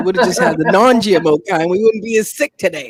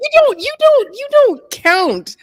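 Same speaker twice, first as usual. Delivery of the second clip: high teasing protest; 4 dB louder, slower than usual. Real, not acted. Teasing friend, high pitch.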